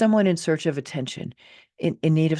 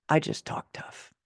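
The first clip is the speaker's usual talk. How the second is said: whispered admission. Real, not acted. Self-mocking admission.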